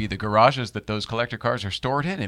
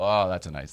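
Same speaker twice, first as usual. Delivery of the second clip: ordinary talk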